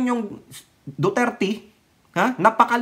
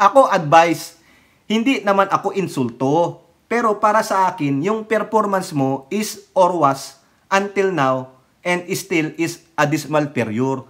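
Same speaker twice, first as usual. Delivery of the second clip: mock Chinese accent. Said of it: "inchik din pala ito".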